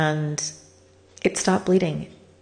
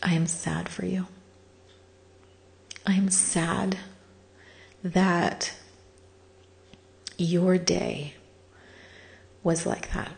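whispered quote; 3 dB quieter, slower than usual. Retold or imitated. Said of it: "what she said to me".

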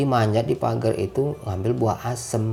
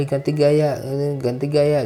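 imitated photographer; 5 semitones higher, 4 dB louder than usual. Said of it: "Dia kayak fotografer gitu banget".

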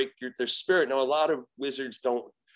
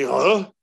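loud, startled questioning grunt; confused grunt; 7 dB louder than usual. Retold or imitated. Possessed girl answers the exorcist, loud confused grunt. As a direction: grunt a puzzled "huh". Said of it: "And she".

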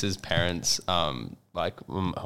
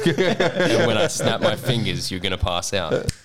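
slow laughing hypnotist; drawn-out mock hypnosis command; soft echoing dream voice; slower than usual. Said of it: "they'll do an A S M R for you".

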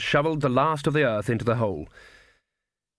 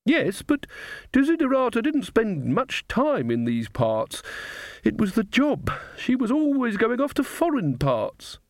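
put-on quavery high old lady; high old woman voice; 11 semitones higher than usual. A narrator's reading. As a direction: pitch it up like a frail old witch. Gamma Brevis speaks.

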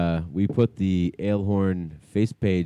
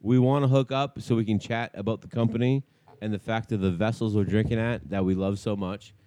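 softer radio-host voicemail; voicemail message; 4 dB quieter than usual. Acted.

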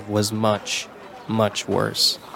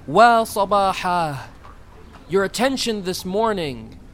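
calling out; 7 semitones higher than usual. A narrator's reading.

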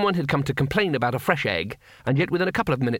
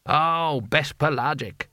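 knowing echo; 2 semitones higher, much slower than usual. Acted. Vendor echoes the claimed origin.

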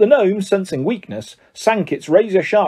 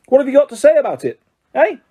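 high, fast furious scolding; angry shout; 10 semitones higher, 4 dB louder, faster than usual. A narrator's reading. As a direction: scold him, loud and quick. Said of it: "shouted Missus Weasley".

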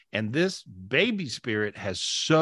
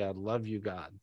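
soft prayer; 6 semitones lower, 8 dB quieter than usual. Shown as a demonstration. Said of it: "now just simply say".

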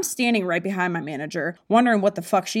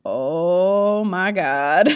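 shocked gasp; 2 semitones lower, much slower than usual. Retold or imitated. Coworkers' shocked reaction.

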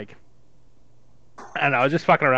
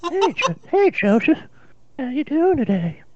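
put-on higher old grandfather voice; Herbert voice; 4 semitones higher than usual. Grandfather greets his grandson Joseph, in a higher old man's voice. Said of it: "Herbert's voice".

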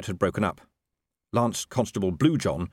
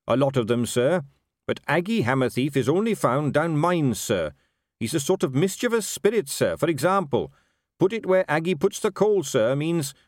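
lightly voiced captain, higher and dutiful; earnest captain, explaining; 7 semitones higher than usual. Captain explaining a dwarf spirit to his commander, earnest. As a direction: explain keenly and respectfully to your superior.

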